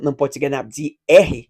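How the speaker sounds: usual speaking voice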